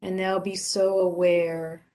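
settled, even voice, leaving space to breathe; guided meditation. Acted. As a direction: guide listeners gently into stillness, unhurried.

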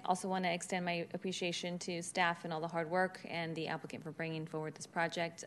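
normal talking voice

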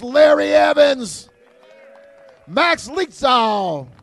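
slow, loud stadium announcer names; announcer roll call. Real, not acted. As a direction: draw out each name to the crowd. Slow shouted roll call of alumni.

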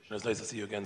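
hoarse, strained, losing voice. Real, not acted. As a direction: push through a failing hoarse voice. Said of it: "Sorry, I'm losing my voice".

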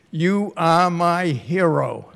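praising through a laugh; slow, laughing praise. Real, not acted. Praising the pro tem warmly.

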